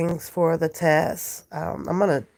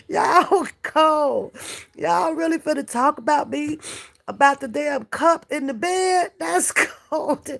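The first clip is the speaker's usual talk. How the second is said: laughing protest; 7 semitones higher than usual. Real, not acted. Laughing protest at teasing viewers.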